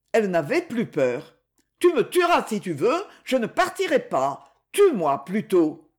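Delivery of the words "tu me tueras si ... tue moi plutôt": desperate defiance. Acted. Woman dares him to kill.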